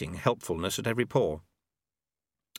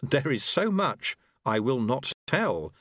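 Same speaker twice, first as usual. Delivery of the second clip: smiling; 5 semitones higher, slower than usual. Acted.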